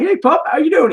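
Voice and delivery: high-pitched greeting to a pup; pet-greeting voice. Retold or imitated. Sheriff greeting the service dog, high pet-greeting voice. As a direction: imitate someone cooing hello to a dog.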